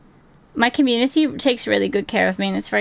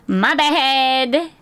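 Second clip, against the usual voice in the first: light chipper sorry; perky apology; 3 semitones higher than usual. Pretend. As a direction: toss off a chirpy apology. Apology said two ways.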